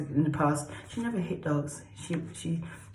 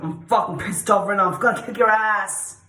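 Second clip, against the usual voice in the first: mock angry; 3 semitones higher, 5 dB louder than usual. Shown as a demonstration. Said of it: "Angry means tense".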